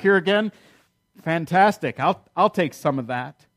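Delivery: breezy, mildly scoffing acceptance; lightly acted sceptical enthusiasm; mock-agreeable sarcasm. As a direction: humour him about his supposed offer. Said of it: "She doesn't get it yet".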